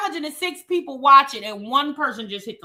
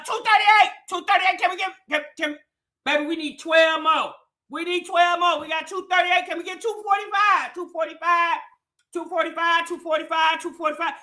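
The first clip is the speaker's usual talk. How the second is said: auctioneer. Pretend. Host begging chat for likes, light mock auction call. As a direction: rattle off the bid numbers like a playful auctioneer. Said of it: "I sound like I'm at an auction".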